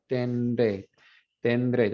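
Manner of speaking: tendré said with the D slipping in naturally between n and r; pronunciation demo. Shown as a demonstration. Teacher demonstrates tendré for students trying it aloud. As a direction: say tendré out loud, letting the D come in on its own. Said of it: "Just say it out loud".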